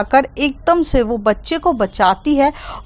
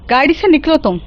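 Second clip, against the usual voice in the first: raised, commanding, higher; angry demand; 4 semitones higher than usual. Acted. Mehar yells at the reckless driver, angry. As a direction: order him out of the car.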